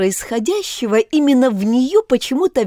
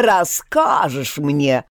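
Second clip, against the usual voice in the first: slow grumbling snap; grumbling retort; 5 semitones lower, much slower than usual. Acted. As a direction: grumble it back, slowly. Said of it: "проворчал Руфи".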